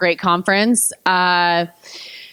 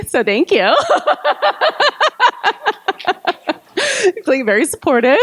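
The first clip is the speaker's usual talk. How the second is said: laughing through tears; 11 semitones higher than usual. Real, not acted. Emotional thanks, laughing through.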